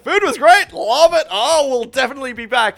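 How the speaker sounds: high, loud over-polite praise; fake gushing. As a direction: lay on the fake compliments. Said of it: "I was like".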